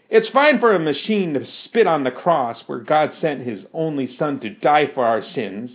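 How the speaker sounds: ordinary delivery, nothing marked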